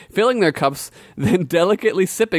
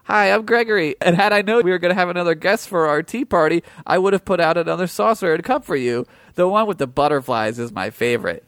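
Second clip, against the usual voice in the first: put-on sweet boy; 2 semitones higher than usual. Gregory welcoming the warrior to tea, eager childlike voice. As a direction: gush like an innocent child.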